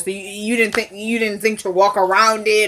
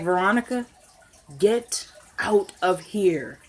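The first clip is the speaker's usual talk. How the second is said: quiet dismissal; 3 semitones lower, 7 dB quieter, slower than usual. Retold or imitated. Husband quietly dismissing her.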